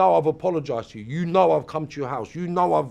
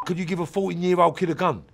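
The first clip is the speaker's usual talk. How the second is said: normal talking voice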